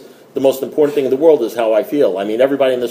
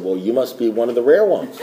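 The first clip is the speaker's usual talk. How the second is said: mock seriousness. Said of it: "we cruelly toy with newcomers".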